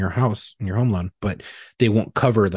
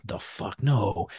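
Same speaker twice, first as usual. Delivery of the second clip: hushed disbelief; 6 dB quieter, much slower than usual. Retold or imitated. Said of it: "And she's like".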